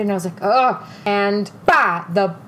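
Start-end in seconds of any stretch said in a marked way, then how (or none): 0.4-0.8 brief, higher-pitched retold groan; mildly frustrated. Struggling to open a purse, retold frustrated ugh. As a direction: let out a mock frustrated grunt. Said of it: "internally so frustrated".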